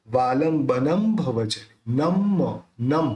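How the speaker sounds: slow वालंबनम closing on M; dot as M. Shown as a demonstration. Teacher showing lips meeting, वालंबनम said with final M. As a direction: close the lips on the end of वालंबनम. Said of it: "उसका उच्चारण अपन करेंगे".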